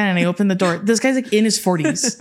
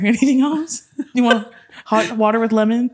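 sarcastic mock hospitality; 4 semitones higher than usual. Mock offering the referee more.

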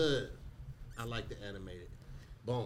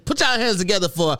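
announcer voice; 6 semitones higher, slower than usual. Retold or imitated. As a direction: announce like a stage host. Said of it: "but, like, on stage".

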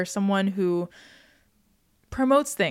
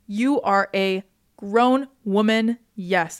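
slow, emphatic praise for a friend; admiring hype; 3 dB louder, much slower than usual. Acted. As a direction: cheer her on word by word. Acted hyping up a friend.

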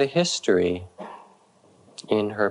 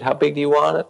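urging louder; 6 semitones higher, 5 dB louder, much faster than usual. Retold or imitated. Teacher urging rage bigger.

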